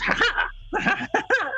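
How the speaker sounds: high breathy crone "ha ha" with kata; old lady battle cry laugh. Acted. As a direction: cackle it out as a tiny fighter. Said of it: "picks up her cane and goes".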